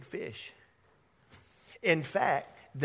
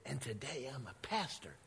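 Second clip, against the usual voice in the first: retold whisper; 5 semitones lower, 14 dB quieter than usual. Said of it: "And then I whispered".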